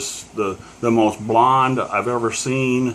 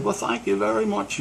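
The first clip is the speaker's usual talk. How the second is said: put-on much higher, muddled southern British accent; a rock singer; 10 semitones higher, 4 dB quieter than usual. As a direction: do a poor British accent, pitched up. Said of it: "a southern British accent".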